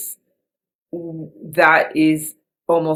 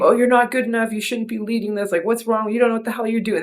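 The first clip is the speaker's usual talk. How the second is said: voice of shame; 7 semitones higher, faster than usual. Retold or imitated. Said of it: "Like, shame".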